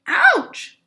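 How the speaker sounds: very high, loud yelp; cried ouch. Acted. Goldie yelps as the massage chair pummels her. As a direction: yelp at the sudden pain. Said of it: "she cried".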